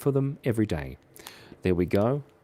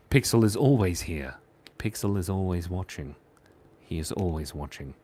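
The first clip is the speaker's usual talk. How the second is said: creepy whisper; 8 semitones lower, 6 dB quieter than usual. Acted. Ominous mascot line, voice dropping.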